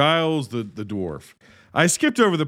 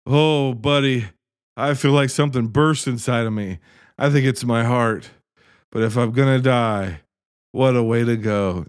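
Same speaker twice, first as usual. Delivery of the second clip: lightly voiced dying dragon; 3 semitones lower than usual. Dying Smeargle to his buddy, a lightly voiced farewell. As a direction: say goodbye like a dying old friend, lightly. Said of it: "he goes".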